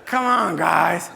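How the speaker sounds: loud, high exasperated laugh-through; laughing protest. Retold or imitated. Pushing back at the brothers, loud laughing protest.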